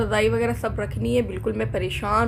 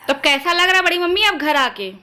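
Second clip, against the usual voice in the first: raised, high voice for grandma; to someone hard of hearing; 8 semitones higher, 4 dB louder than usual. Real, not acted. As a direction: speak up loud for a deaf listener. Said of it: "हमारी दादी को सुनाई नहीं देता है, बहुत तेज बोलना पड़ता है।".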